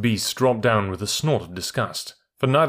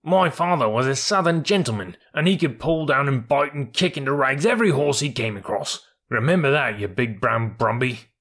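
higher-pitched indignant boasting; boastful, angry mule; 4 semitones higher than usual. Acted. Mule defending his father to the troop horse, indignant. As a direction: stand up for the family with some heat.

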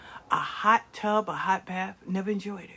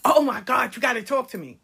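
pushy pleading; 5 semitones higher, 5 dB louder than usual. Retold or imitated. Pushy friend begging.

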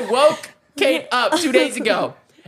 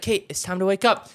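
softer, tender call; gentle wake-up; 3 semitones lower, 4 dB quieter than usual. Retold or imitated. Husband gently wakes wife with a hug. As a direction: wake her softly and lovingly. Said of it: "I hugged her and I was like".

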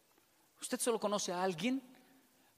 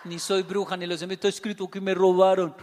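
louder, laughing all through; laughing retort; 11 dB louder than usual. Retold or imitated. Wife answering her husband, louder and laughing. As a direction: laugh out the comeback.

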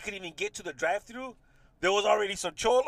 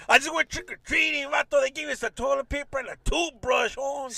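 higher joking cholo voice; playful cholo voice, higher; mock cholo; 4 semitones higher than usual. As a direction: brag about the trick-or-treat haul. Voicing cholo panhandler.

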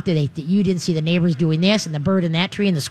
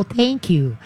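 steady, unexcited thank you to the dog; calm thanks; 2 semitones higher than usual. Shown as a demonstration. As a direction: keep it level so the dog stays focused. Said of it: "you're just gonna calmly go".

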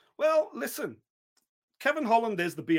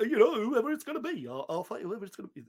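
drifting character voice; 2 semitones higher than usual. Acted. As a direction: lose hold of the accent as you go. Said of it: "his voice has changed there".

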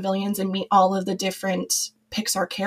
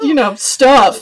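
teary laugh; 4 semitones higher, 10 dB louder, slower than usual. Real, not acted. Guest laughing through tears.

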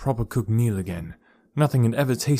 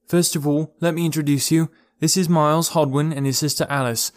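Laurel addressing the village; 4 semitones higher than usual. Acted.

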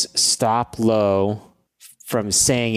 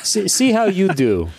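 high taunting dare; mocking challenge; 8 semitones higher than usual. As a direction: tease them, sing-song. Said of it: "you know".

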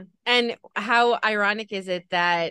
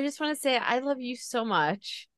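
louder, higher emotional wail; real near-tears outburst, pitched up; on the verge of crying; 3 semitones higher, 4 dB louder than usual. Real, not acted. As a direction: protest through welling emotion. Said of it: "I don't wanna cry now".

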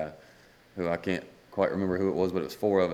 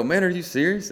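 half-laughing retold shock at the news; retold amazed question; 11 semitones higher, 5 dB louder than usual. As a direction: pitch jumps much higher, a little louder, in disbelief. Retelling hearing the big news.

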